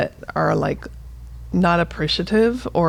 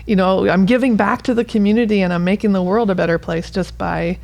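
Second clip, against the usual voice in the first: higher, bright retelling of a patient's happy reply; imitating a proud patient; 3 semitones higher than usual. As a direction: lightly voice the patient gushing about their life. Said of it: "And you can come back and go".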